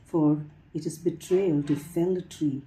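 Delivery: measured poem reading with lilting, falling lines; poetry recitation. Acted. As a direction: recite line by line, lifting the openings and pausing between. Reads a translated poem aloud.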